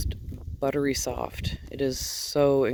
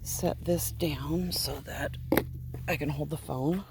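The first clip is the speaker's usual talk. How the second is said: whispered aside; 5 dB quieter than usual. Real, not acted. Filming alone in the barn, she whispers while setting things down. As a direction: murmur it to yourself while juggling things.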